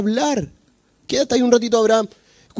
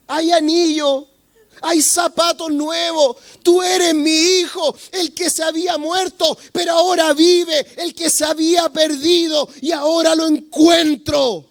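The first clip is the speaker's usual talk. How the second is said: joyful father; 3 semitones higher than usual. Acted. Father proclaims his lost son found again, tearful and joyful. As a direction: announce it with tearful joy.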